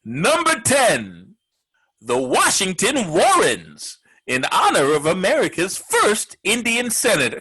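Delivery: slow, drawn-out countdown reveal; countdown announcer. Acted. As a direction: announce it like a late-night top ten. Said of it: "The top ten replacement names".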